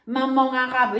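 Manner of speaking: slow, mocking take on the critics' words; a hint of sarcastic quoting voice; mock quote of critics. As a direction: drawl it out as if quoting a silly accusation. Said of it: "on m'a mis entre guillemets".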